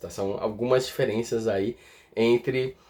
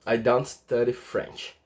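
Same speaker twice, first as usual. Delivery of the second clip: slow, careful I don't study French; teacher modelling the contraction; slow model repeat; 3 semitones lower, slower than usual. Shown as a demonstration. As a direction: say it slowly so students can copy. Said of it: "demo repeat".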